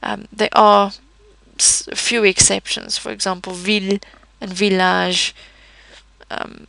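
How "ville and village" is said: "ville" and "village" in French with clear L; sounded L. Shown as a demonstration. Teacher shows exceptions, "ville" and "village" with L sounded. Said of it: "you can hear the L sounds".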